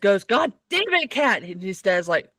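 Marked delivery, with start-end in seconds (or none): 0.2-1.4 high, soft mock curse; mock exasperation. Friend retelling his reaction to Mariah, mock exasperated. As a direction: imitate an exasperated cry, pitched up and kept small.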